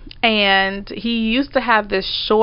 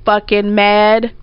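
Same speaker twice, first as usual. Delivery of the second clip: mad; slower than usual. Retold or imitated. Retelling her anger, drawn out.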